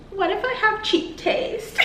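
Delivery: high, giggly self-doubt; laughing worried question. Retold or imitated. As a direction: ask it through a high laugh. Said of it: "And I remember saying".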